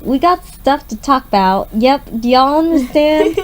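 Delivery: put-on hillbilly accent. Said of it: "in some odd hillbilly accent".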